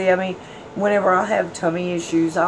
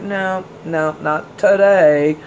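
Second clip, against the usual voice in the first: mock refusal; 4 dB louder, slower than usual. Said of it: "I was like".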